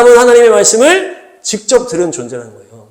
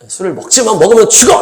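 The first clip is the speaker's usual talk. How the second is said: firm warning; 3 semitones higher than usual. Shown as a demonstration. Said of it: "이렇게 해야 되는데".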